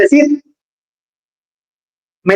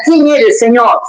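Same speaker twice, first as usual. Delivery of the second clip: mock shout; slower than usual. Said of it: "Y él grita".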